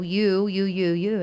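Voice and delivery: whining. Retold or imitated. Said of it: "he's whining and complaining".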